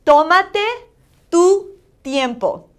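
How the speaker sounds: high, loud TÓmate rising, slow "tu tiempo" falling; careful review of "Tómate, tu tiempo", O stressed; accent on the O. Shown as a demonstration. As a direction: elevate the first syllable of "Tómate". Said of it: "you're gonna elevate your sound more".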